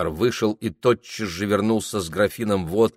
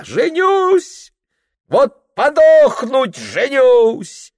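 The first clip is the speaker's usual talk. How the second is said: put-on high, loud, drunken raving of a giddy young clerk; a tipsy lad shouting his wedding plans, much higher; 11 semitones higher, 6 dB louder, slower than usual. (пьяный восторженный выкрик, высоко и громко)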